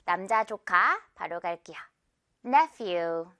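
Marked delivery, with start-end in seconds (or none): 2.4-3.3 Nephew with the few part held a little longer; slow teacher demo of Nephew, few lengthened; drawn-out few. Shown as a demonstration. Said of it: "few 부분은 조금 길게 끌어도 주세요".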